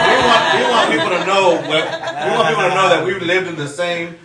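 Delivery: laughing through the words. Real, not acted. Teasing back the cohost, laughing all through. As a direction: keep laughing as you explain.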